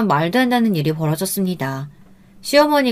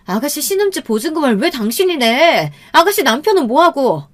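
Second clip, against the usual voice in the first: higher-pitched, incredulous demand; indignant wife; 7 semitones higher, 3 dB louder than usual. A narrator's reading. Wife questioning husband about the lent deposit, indignant. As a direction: confront him in a raised, angry pitch.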